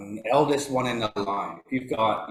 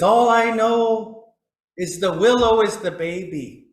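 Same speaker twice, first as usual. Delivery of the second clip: imitated crying; 10 semitones higher, 8 dB louder than usual. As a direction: act out a tearful elder crying out the words. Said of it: "And he starts crying".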